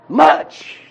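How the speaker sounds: Much. lifted high and held with a rise; stressed much. Shown as a demonstration. Teacher stresses the emphatic first word to the class: Much. called high. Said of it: "The emphasis is on the greatness".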